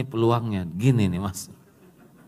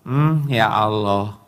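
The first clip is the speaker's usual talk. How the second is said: overdone prayer; 3 dB louder than usual. Retold or imitated. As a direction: ham up a pious complaint. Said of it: "Nggak usah gitu-gitu amat kata-katanya".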